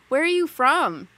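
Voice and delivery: loud, high-pitched clueless question; mock-baffled, pitched well up. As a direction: ask it loudly, hammed-up and high, as if stumped. Mimics being clueless about a Southern accent.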